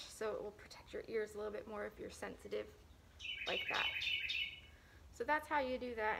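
muffled cloth-covered mouth; speaking behind fabric mask; through a face mask. Real, not acted. Seen 3: Fabric mask covers mouth and nose throughout; removed after 21.6.

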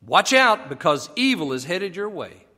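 mock warning. Pharaoh threatening Moses over the children, emphatic warning. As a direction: warn them off as Pharaoh. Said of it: "He says".

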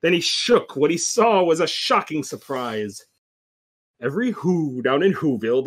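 measured, rhyming storybook read; story narration. A narrator's reading. Reading the Grinch tale to listeners, story narration. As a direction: read it like a dramatic bedtime tale.

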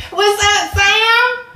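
high bright hello to Sam; sing-song hello; cheery greeting. Real, not acted. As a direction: lift the voice to greet him.

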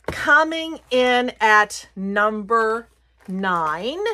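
very slow, drawn-out reveal; suspenseful countdown call; countdown announcer. Real, not acted. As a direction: stretch each word to build up to the number. Announces countdown item to viewers.

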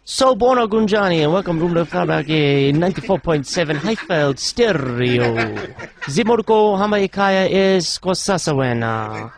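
put-on Zulu-accented automated welcome; Zulu phone menu. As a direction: play a recorded Zulu-language operator.

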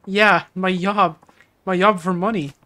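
slow, lightly put-on foreign accent saying "yob"; broken-English accent. Woman insists to Kiryu about her job, slow mock accent. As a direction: drag out "yob" like a struggling learner. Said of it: "There is not a real person that talks like this".

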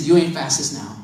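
lightly voiced mocking friend; mocking taunt. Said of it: "and he said".

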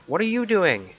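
high, loud, fed-up yell at the screen; exasperated shout. Real, not acted. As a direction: demand it, annoyed and loud. Yelling at the game character.

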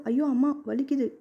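half-playful cry that her hand hurts; mock cry of pain. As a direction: play up the hurt with a cry. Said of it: "என கத்தினாள்".

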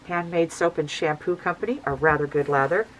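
muffled behind a dust mask; talking through a dust mask, muffled. Real, not acted. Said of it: "If I sound a little bit muffled, it's because I have my dust mask on".

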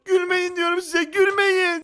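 high-pitched embarrassed pleading; mock whining. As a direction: beg them to stop laughing. Laughed at by family for nakedness.

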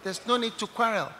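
calm an angry man down softly; acted pacifying. Preacher placating a shouting man in public, soft and pleading.

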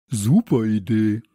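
loud, eager exclamation; called out. A narrator's reading. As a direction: shout your approval. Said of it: "rief Samson".

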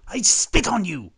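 loud, high, slow insult; drawn-out contemptuous shout; scornful outburst. Acted. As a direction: hurl it down at a beggar with contempt. King scorns the beggar.

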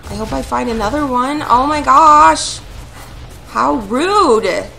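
loud, heated ranting, surging and easing; pissed off. Real, not acted. Gamer berating the little turd after wasted berries, pissed off. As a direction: rant at them in real anger. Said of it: "I'm so pissed off at you".

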